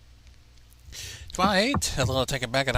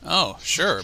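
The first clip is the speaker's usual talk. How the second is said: surprised; 2 semitones higher, 6 dB louder than usual. Acted. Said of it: "a little surprised".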